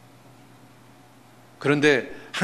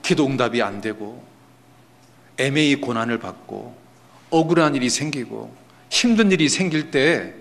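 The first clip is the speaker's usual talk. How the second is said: ordinary delivery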